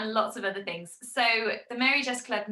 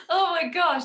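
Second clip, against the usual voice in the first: higher and louder, delighted burst; excited gasp; 8 semitones higher, 6 dB louder than usual. Real, not acted. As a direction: react with real delight, almost laughing. Reacting to a funny idea.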